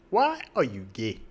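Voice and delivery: imitated African accent, held-out vowels; high-voiced African accent. Shown as a demonstration. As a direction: put on an African interviewer's accent. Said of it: "I don't know any Africans with high voices".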